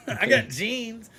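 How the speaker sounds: laughing through the words; chuckling while saying it. Real, not acted. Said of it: "I can't say I got lucky".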